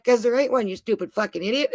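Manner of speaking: a retold laughing jab, half-chuckled; laughing taunt. Father-in-law laughing at his son-in-law's mistake, amused chuckle. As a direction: chuckle the insult through a laugh. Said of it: "And he laughs at me".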